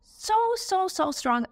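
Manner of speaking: slow, high, voice catching with real emotion; real emotion welling up, high and very slow; getting emotional. Real, not acted. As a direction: drag the words out as tears rise. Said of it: "I'll get emotional".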